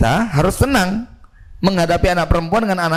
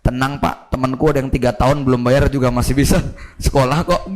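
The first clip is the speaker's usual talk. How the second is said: low, breezy shrug of a voice; lazy son; 5 semitones lower than usual. Retold or imitated. Son telling his father not to worry, breezy and low. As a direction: brush it off, easy and quick. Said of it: "ngomongnya begini".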